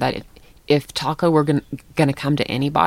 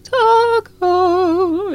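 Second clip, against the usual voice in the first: high, louder mock shout of the name; shouted chorus; 5 dB louder, much slower than usual. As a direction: call the dog over and over. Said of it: "this chorus of".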